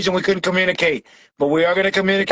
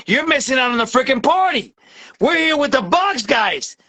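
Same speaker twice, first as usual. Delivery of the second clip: higher, fired-up hype rant; real overexcited rant; 5 semitones higher than usual. Real, not acted. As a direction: get carried away hyping your team. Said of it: "I'm going overexcited here".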